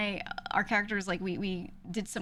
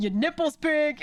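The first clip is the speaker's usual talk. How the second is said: loud, high-pitched, unhinged, furious meltdown rant; 8 semitones higher, 8 dB louder than usual. Describing a GTA clip of Larry in the cells yelling at a cop, mock-angry Larry rant. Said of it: "crashing out on this cop".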